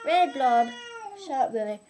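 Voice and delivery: loud taunt. Acted. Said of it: "And she goes".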